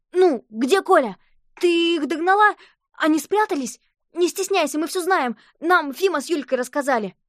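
high, excited rush of questions; children crowding a friend; eager questions. A narrator's reading. Crowd of kids pestering Alice. (взволнованно и высоко)

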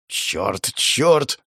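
mild barked curse, rising on the repeat. Acted. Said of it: "гаркнул Момотара".

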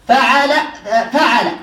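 فعل as fa'al, open a after f and ayn; fatha on both. Shown as a demonstration. Teacher lists noun patterns for students, both vowels fatha. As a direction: say فعل with two a vowels, fa-'al. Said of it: "بفتح الفاء مع تثليث العين".

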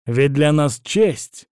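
slow, grandly declaiming hammy stage actor; pompous. Acted. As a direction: pronounce it with lofty self-importance. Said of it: "пафосно произнёс Госар".

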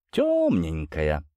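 low, drawn-out teaser; building suspense. A narrator's reading. Captain baiting the prince with a secret, slow and ominous. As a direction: stretch the word slowly to tantalize. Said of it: "продолжил нагнетать Василий Емельяныч".

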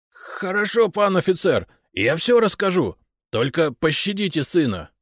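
high, loud, submissive plea; anxious father yielding to an officer; frightened pleading. A narrator's reading. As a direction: give in and beg for your son. Frightened father begs officer for mercy.

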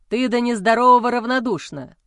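loud anguished accusation; husband howling his grievance loudly; howled. Acted. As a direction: howl it at your wife. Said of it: "взвыл он".

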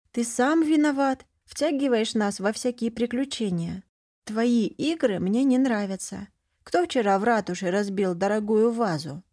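girl lecturing, a hint of moralising; preachy. Sister lecturing her brother, mildly preachy. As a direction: scold him like a little know-it-all. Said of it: "с поучительными нотками произнесла".

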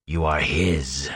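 low, soft, grating menace; a grating hiss like nails on slate; breathy grating voice. A narrator's reading. The Fade claiming Rand for the dark lord, breathy and grating. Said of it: "The breathy grating of that voice".

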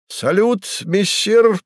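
high, bright call of a lively pair; shouted greeting. A narrator's reading. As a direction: shout it out with joy. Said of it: "прокричала неугомонная парочка".

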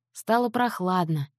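ordinary delivery, nothing marked

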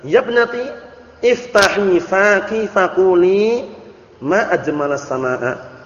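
slow, gently instructing voice of a learned father; a hint of a patient father correcting his girl; father gently telling his daughter how to say it; the father's advice. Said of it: "Akhirnya bapaknya nasihati".

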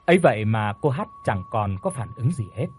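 ordinary delivery

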